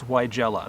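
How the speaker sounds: Weigela said "why-JELL-a"; taught pronunciation. Shown as a demonstration. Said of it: "That's how I was taught to say it".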